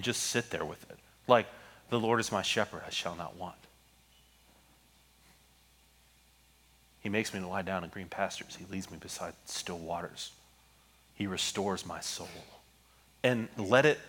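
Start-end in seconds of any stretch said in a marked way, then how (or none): 1.9-12.3 very soft, slow, lingering reading; reading slowly. Shown as a demonstration. Pastor showing the congregation how to savor scripture, soft and slow. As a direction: let each phrase sit, hushed. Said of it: "to read it slowly".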